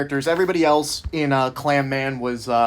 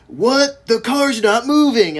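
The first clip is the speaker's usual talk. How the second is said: higher, mock-baffled robber; surprised robber; 6 semitones higher, slower than usual. Robbers stuck in the getaway car, mock surprise. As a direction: pitch up in hammed-up confusion. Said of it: "they're like".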